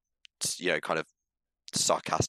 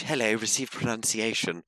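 mock received pronunciation; Julie Andrews; 2 semitones higher than usual. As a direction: put on very proper, posh English. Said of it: "which is Julie Andrews very much".

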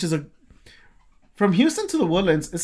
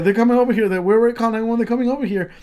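loud, higher-pitched emergency talk; insistent, pitched up over the chaos; retold urgent reassurance; 7 semitones higher, 6 dB louder, faster than usual. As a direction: re-enact urgently announcing that help is coming. Retold emergency, telling friend help comes.

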